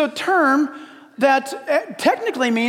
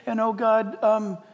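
softer, murmured prayer that wanders off into laughter; drifting mock prayer; 6 dB quieter than usual. Mock-pious, soft prayer losing focus. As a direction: pastor mimics a distracted pray-er for the congregation, softly trailing off. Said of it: "And then you go to prayer".

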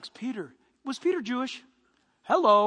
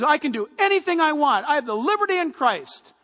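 boastful; 3 semitones higher, 4 dB louder than usual. Acted. Voicing a boastful liberty-claiming believer.

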